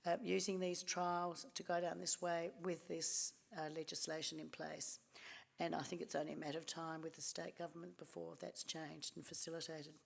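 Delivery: hoarse, croaky throat; speaking through a croaky sore throat. Real, not acted. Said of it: "Sorry about my croaky voice".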